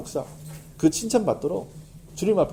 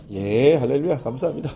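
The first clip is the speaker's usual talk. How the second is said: cheerful reply; 4 semitones lower than usual. Retold or imitated. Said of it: "그러면 제가 뭐라면".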